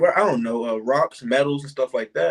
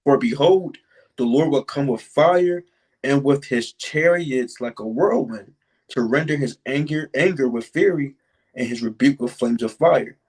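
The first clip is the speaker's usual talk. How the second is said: scripture reread. Shown as a demonstration. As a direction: read the verse out again, deliberately. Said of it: "I'm gonna read it again".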